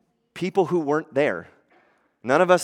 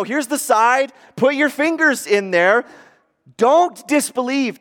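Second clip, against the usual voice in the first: earnest invitation; 9 semitones higher, 5 dB louder than usual. Retold or imitated. Jesus voiced inviting Thomas.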